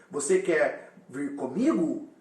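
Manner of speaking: slow question tune on "comigo"; question intonation. Shown as a demonstration. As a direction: ask it, letting "comigo" carry the question. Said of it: "Esse comigo é o que gera a entonação de interrogação". (pergunta lenta com entonação em "comigo")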